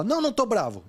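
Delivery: snapped back high and defensive; mock angry denial. Someone asked if they're angry denies it, sharply and high. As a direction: brush off the question with irritation.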